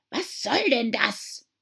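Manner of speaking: whispered, slow indignant mouse; tense whisper. A narrator's reading. Mouse to Alice, offended whisper. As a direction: hiss it out offended.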